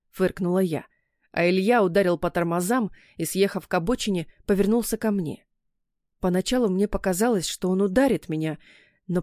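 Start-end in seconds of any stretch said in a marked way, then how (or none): none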